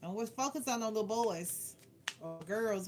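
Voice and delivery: ordinary talk, nothing marked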